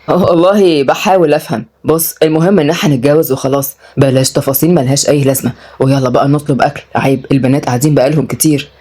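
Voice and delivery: low, brushing the details aside; dismissive younger brother. Acted. Brother drops the subject to order food, dismissive.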